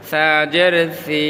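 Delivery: 'সি' thin, like th; thin, tongue-tip. Shown as a demonstration. Teacher models the letter for learners, 'সি' thin from the tongue tip. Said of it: "পাতলা করে".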